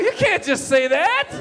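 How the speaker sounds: high, loud, laughing disbelief; shocked outburst. Retold or imitated. Comic telling Trump off, shrieking in laughing disbelief. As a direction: cry out in squeaky outrage.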